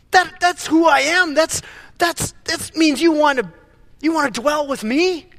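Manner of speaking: a hint of giddy joy building up; excited God. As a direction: gush like a thrilled father. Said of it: "gets excited. He's jazzed. He's pumped up".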